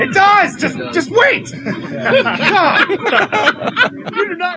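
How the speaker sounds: high, excited squeal through laughter; laughing protest. Real, not acted. Friend begging others to wait for the intro, laughing.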